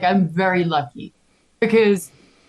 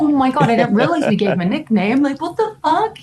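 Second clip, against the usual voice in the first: high-pitched stunned disbelief; retold freak-out; 6 semitones higher than usual. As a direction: replay losing it, voice jumping up. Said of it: "fucking losing my shit".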